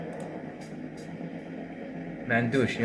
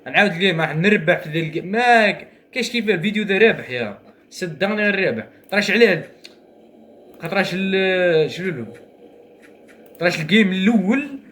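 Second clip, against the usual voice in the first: raised, eager gamer talk; hyped after a win; 4 semitones higher, 3 dB louder than usual. Real, not acted. Gamer hyping his next match, raised and eager. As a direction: pump yourself up for the rematch.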